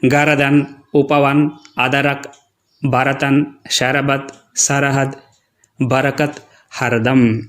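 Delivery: गर्दन drawn out as gar-a-dan with a full extra vowel; teacher demoing the error: शरबत as sha-ra-bat; mock wrong pronunciation. Shown as a demonstration. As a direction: imitate the kids' mistake, गर्दन as ga-ra-dan. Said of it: "एक बार वे कैसा पढ़ते हैं, देखेंगे".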